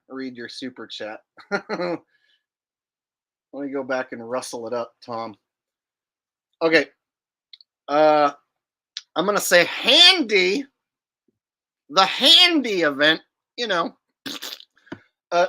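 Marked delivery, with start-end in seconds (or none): none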